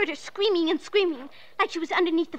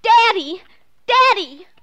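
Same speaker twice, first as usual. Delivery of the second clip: frantic shout for Daddy; calling out; 2 semitones higher, 9 dB louder, slower than usual. Acted. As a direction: yell for her father, scared. Girl calling father in panic.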